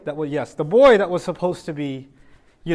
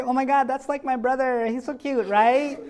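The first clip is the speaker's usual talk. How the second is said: put-on gushing over baby; 6 semitones higher, 3 dB quieter than usual. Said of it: "don't look at the basket straight and say".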